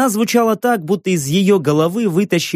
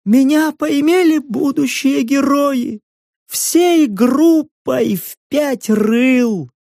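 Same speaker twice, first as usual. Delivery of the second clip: high, slow, flat-toned hag; emotionless crone; 9 semitones higher, slower than usual. A narrator's reading. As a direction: state it with all feeling drained. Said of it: "снова бесстрастная". (бесстрастно, старческим голосом)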